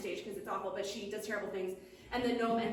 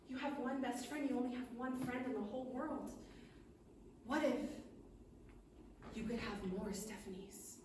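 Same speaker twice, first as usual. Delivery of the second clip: gentle offer; 9 dB quieter than usual. Acted. Good witch gently offers more friends.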